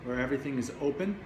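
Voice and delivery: measured meditation guiding with long pauses between phrases; guided meditation. Real, not acted. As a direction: guide listeners into the body, leaving space after each phrase.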